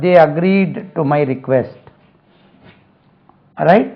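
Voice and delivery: very slow, each word spaced out; teacher dictating English slowly to students; slow model sentence. Shown as a demonstration. Teacher reading an example sentence aloud, very slowly. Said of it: "slow model sentences".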